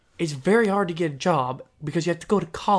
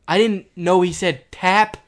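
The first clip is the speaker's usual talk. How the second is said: slow, with "tap" punched at the end; stress on tap; 4 dB louder, slower than usual. Real, not acted. Confessing the misunderstanding about the hammer, "tap" stressed. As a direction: draw it out, then hit "tap". Key word repeated in confession.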